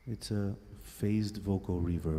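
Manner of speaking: slow, through a phased vocal reverb; processed voice with phased echoing tail; phased reverb effect. Shown as a demonstration. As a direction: demo the voice washed in phased reverb. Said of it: "This is nice".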